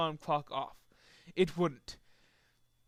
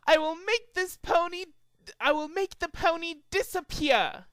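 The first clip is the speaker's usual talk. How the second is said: high, grand magician voice; showman announcement; 11 semitones higher, 3 dB louder than usual. Acted. Trixie announcing her trick to the crowd, high grand magician voice.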